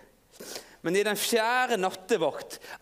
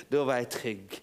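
soft, low sigh of relief; gentle hushed relief; Peter relieved; 4 semitones lower, 4 dB quieter than usual. Pretend. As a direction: let the fear melt away quietly. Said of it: "Peter, hva følte du da?".

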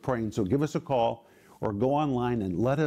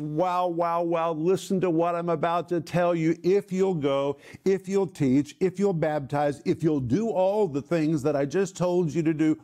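a touch of raised, eager delight on "wow"; mildly excited; 3 semitones higher than usual. Retold or imitated. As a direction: voice Jesus bursting to share the promise, lightly. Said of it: "He is so excited about what he's going to tell them".

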